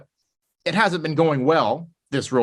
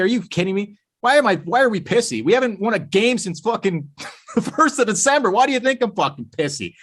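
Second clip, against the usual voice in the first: imitating an irritated player snapping back, higher; mock angry rant; 4 semitones higher than usual. Player mocking a reporter, in a mock irritated rant. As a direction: play the fed-up star venting at the reporter.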